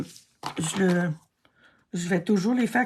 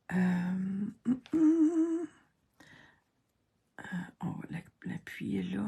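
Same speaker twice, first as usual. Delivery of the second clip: soft whisper, focused on the task; 6 dB quieter, slower than usual. Real, not acted. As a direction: whisper while concentrating on the gluing. Concentrating while gluing, talks softly.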